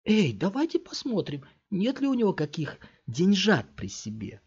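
greedy thug. A narrator's reading. Third thug eyes the boy's pockets, sly and greedy. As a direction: needle him, sniffing for cash.

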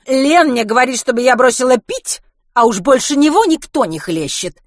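loud, high-pitched ranting; angry complaint. Acted. Kitty complains about hypocrite Len, angry and loud. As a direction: protest the injustice loudly.

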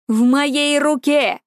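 победоносно, медленно выкрикнуть; торжествующий возглас героя; triumphant shout. A narrator's reading. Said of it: "победоносно прокричал Персей". (победоносный крик)

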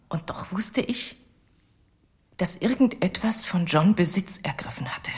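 a shaken whisper of confession; hushed whisper. Acted. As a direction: breathe it out like a dark secret. Confession about John's possession.

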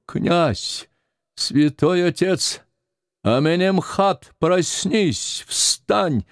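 put-on high, urgent old woman calling; зовёт спящего. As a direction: try to wake him, calling out. Старуха будит лежащего жреца. (старуха зовёт, высоко и тревожно)

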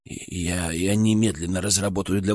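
quiet, low, faltering report; nervous. A narrator's reading. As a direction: push through with nervous hesitation. Nervous doctor admits defeat.

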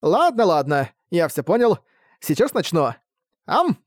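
chirpy servant about to bite; eager vampire. Acted. Вампир радостно кусает хозяина. (радостный вампир перед укусом)

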